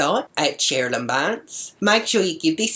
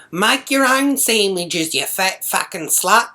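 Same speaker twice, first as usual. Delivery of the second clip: mild mock yell, pitched higher; retold yell; 5 semitones higher, 3 dB louder than usual. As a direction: jeer it slowly in a raised pitch. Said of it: "And he yells out".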